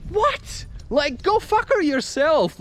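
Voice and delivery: high-pitched acted indignation; retold incredulous comeback; indignant retort. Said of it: "And then I said".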